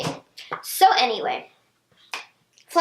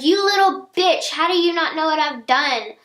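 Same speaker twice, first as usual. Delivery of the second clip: retold angry yelling; 3 semitones higher than usual. Student retelling friend's phone tirade, mild mock yelling. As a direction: imitate a furious friend without fully yelling. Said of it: "She starts yelling at me, like, flat out yelling".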